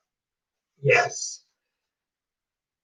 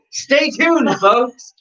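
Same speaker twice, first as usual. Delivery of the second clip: laughing through the words; giggling while talking; 10 semitones higher, much slower than usual. Real, not acted. Cohost cracking up at the joke.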